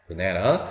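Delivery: "banana" as buh-NAE-nuh; schwa and stressed "ae". Shown as a demonstration. Teacher answering her own question, English stress in "banana". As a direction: say "banana" with only the middle vowel strong. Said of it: "A의 원래 발음".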